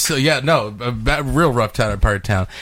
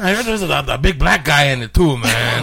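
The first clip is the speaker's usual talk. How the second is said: put-on Hispanic accent; 5 semitones higher than usual. Prank caller to toy store in light Hispanic accent. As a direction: play a confused dad with a Hispanic accent. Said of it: "very Hispanic name".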